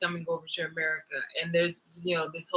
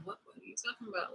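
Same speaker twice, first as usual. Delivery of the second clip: mock denial; 18 dB quieter, faster than usual. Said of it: "And they're like".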